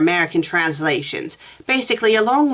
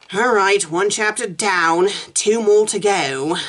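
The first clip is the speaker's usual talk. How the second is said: chapter break; 3 semitones higher, slower than usual. Real, not acted. Reader announces progress between chapters.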